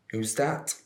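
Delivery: lightly voiced prying teacher; nosy teacher. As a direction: imitate a suspicious teacher's question. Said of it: "Your teacher pulled you aside".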